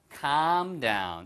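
"calm" with a long, drawn-out ah, unlike "come"; slow "calm down" with lengthened "calm"; long vowel. Shown as a demonstration. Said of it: "발음만 길게. come이 아니에요".

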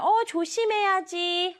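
a hint of a concerned mother's warning; cautioning mother. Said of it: "엄마가 우리 친구들이 위험한 상황에 처하면".

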